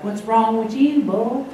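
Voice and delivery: slow, mildly mock retort. Pastor answering his disappointed evangelist friend, slow mild challenge. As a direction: throw the question back, drawn out. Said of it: "And I was like".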